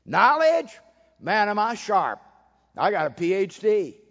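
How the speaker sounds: smug boast. Acted. Mocking the proud know-it-all.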